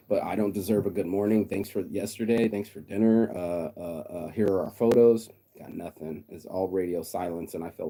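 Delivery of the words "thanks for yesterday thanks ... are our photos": mock text message. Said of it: "like she posted".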